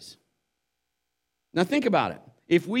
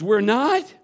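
louder, higher, rising question; hopeful disbelief; 4 semitones higher, 6 dB louder than usual. Retold or imitated. Frightened passenger told he will not die, surprised. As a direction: imitate a panicked man suddenly taken aback. Panicked passenger doubting the reassurance.

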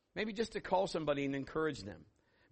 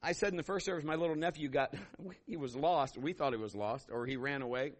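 ordinary talk

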